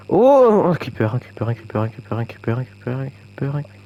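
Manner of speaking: alarmed cry. Real, not acted. Creeper alarm.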